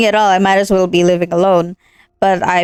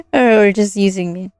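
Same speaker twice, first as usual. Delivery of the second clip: laughing. Acted.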